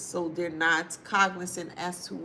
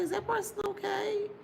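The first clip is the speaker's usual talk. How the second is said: much higher, incredulous mock question; puzzled onlooker; 14 semitones higher than usual. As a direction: pitch it way up, like a baffled viewer. Imagined viewer reacting to video.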